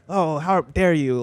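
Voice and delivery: slow, hammed-up offended gasp; mock the outraged gamer, drawn out; sarcastic imitation of fake outrage; mock indignation. Mocks a gamer's indignant reaction.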